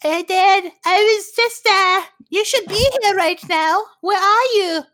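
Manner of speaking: exaggerated high-pitched character voice; put-on date voice. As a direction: play a slow, pushy date in falsetto. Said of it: "She was putting on a voice".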